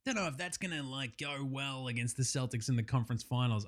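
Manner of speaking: half-hearted muttered doubt; mock hesitant aside. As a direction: mumble it like a doubtful teammate. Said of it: "It's like".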